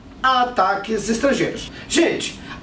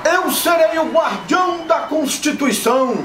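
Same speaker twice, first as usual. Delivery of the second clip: campaign rally shout. Acted. Skit repeats the quoted speech.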